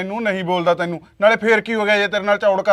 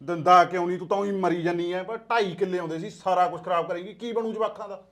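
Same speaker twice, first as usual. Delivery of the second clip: much softer, hushed bickering at night; hushed quarrel; 8 dB quieter than usual. Acted. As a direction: keep the fight down so the child sleeps. ਆ ਕੁੜੀ ਸੁੱਤੀ ਪਈ ਆ.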